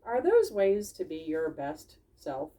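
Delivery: lightly teaching; Dawn's voice. Acted. Dawn the fox gently teaching the critters. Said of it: "Dawn said".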